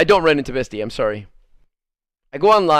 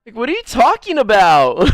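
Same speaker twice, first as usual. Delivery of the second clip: laughing disbelief. Retold or imitated. Woman denying the caller's accusation, laughing in disbelief. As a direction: imitate her spluttering, amused "what?". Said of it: "then she started laughing".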